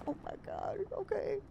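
small, high, hushed surrender; mock meek daughter. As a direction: give in timidly to a scolding mom. Cowed promise to mom, acted.

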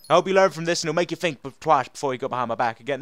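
American accent drifting into Tennessee twang. Shown as a demonstration. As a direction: act a warning line in an overdone Southern American accent. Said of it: "I just sound like I'm from Tennessee".

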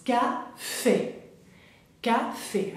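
French "café" with a clearly open final "é"; teacher's careful "café", é held open; open accented é. Shown as a demonstration. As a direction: model "café" in two distinct syllables. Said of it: "Ese acento es bien abierto".

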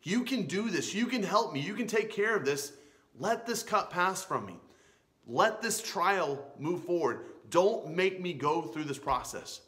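lightly acted child imploring a father; pleading child. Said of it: "And he pleads".

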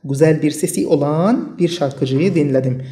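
very slow, words set apart; slow dictation. Shown as a demonstration. Teacher reading the example sentence to students, very slow. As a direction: read it slowly so learners can follow. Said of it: "إذن".

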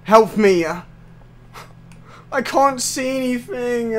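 high, drawn-out whine for help; helpless plea. Real, not acted. Player lost in the dark game, pleading helplessly. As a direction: plead slowly, stretching the last words.

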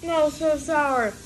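slow high pained whine. Real, not acted. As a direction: whine through the sourness. Sour candy pain.

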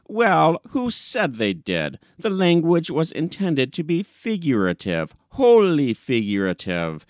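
lightly voiced indignant editor; blustering editor. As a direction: wriggle out of it with bluster.

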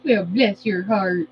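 slow, low country drawl; unhurried country-accent lilt. Pretend. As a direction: stretch it out in a put-on country accent. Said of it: "go into my country accent".

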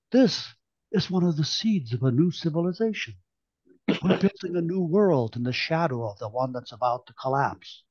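earnest, weighty conviction; solemn. Acted. Sval addressing the room, solemn and earnest. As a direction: Sval lays out his vision with gravity. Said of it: "Sval said solemnly".

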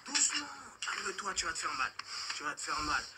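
soft, mock-soothing threat; menacing calm. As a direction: hush him like a cruel nurse. Agresseur menace doucement sa victime. (menace douce et feutrée)

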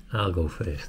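whispering. Real, not acted. Bravely trying the hot snack.

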